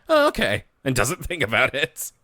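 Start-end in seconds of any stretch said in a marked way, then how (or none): 0.1-0.6 imitating D W. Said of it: "And D W is like".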